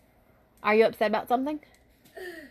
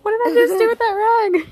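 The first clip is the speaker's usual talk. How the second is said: exclaiming; 13 semitones higher, 9 dB louder than usual. Real, not acted. Exclaiming, searching for rag.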